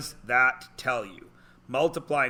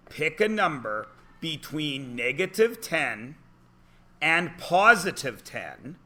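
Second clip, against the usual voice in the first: slow instruction. Shown as a demonstration. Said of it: "that's where kids get stuck".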